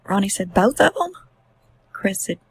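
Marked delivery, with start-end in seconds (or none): 0.5-1.1 higher, rising, half-believing; stunned question. Retold or imitated. A father asking his son about the children, stunned. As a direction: ask like the floor just dropped.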